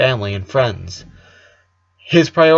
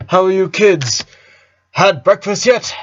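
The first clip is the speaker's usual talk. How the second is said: higher, upbeat dad voice; cheerful dad; 8 semitones higher, 4 dB louder than usual. A narrator's reading. Dad asking his kids about breakfast, higher and cheery. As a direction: play the dad in a really good mood. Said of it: "he asked in a really good mood".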